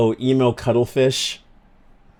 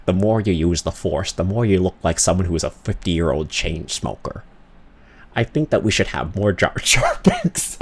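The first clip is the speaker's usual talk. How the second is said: George Lucas impression; 4 semitones lower than usual. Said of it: "kinda sounds like this".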